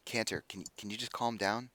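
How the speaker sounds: very soft, hesitant plea; timidly ask, barely raising your voice; small voice. Acted. Masked figure trying to calm the hothead, small and hesitant. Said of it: "you hear a small voice".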